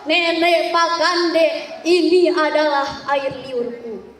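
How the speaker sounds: lightly voiced giant threat; menacing giant. A narrator's reading. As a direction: warn her off like a monster. Labedu posing as giant.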